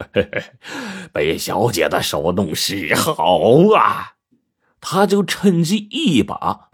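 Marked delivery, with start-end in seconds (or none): 0.1-4.1 slow, drawn-out lewd leer; chuckle, then stretch it out lasciviously; smirking lecher. A narrator's reading. White fatty to the hairdresser washing him, smirking. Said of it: "白胖子讪笑道".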